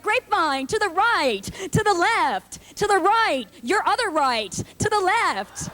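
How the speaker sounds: chanting steps, slowing on the lefts; condescending aerobics instructor. Retold or imitated. Instructor barking steps at her aerobics class. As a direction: call the moves like a bossy instructor. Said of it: "They're like".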